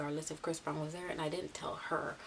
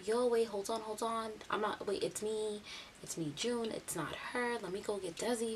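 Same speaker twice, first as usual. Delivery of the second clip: mock-urgent interruption, pitched higher; urgent protest; 4 semitones higher than usual. June imitated stopping the singer on the phone, urgent. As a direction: cut in quickly to correct a mix-up.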